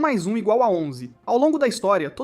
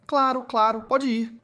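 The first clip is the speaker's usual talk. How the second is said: quick, eager agreement, higher and louder; an anxious principal eager to please; 5 semitones higher, 5 dB louder, slower than usual. Acted. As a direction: eagerly wave him off.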